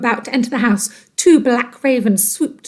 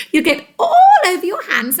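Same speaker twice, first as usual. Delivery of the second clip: mild cry; 9 semitones higher, 3 dB louder than usual. Acted. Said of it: "cried Missus Twit".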